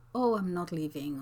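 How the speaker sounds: naive, missing the sarcasm, almost whispered; innocent reply. Shown as a demonstration. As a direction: answer innocently, not getting the jab. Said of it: "if you didn't get the sarcasm".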